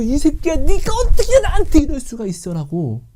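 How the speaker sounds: high, loud screaming rage; enraged shriek of betrayal; furious yelling. Acted. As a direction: grab his hair and scream at him. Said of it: "내가 머리 잡고".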